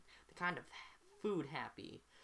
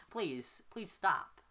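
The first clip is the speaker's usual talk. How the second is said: desperate plea; 4 semitones higher, 5 dB louder, much slower than usual. Acted. Begging David to stop.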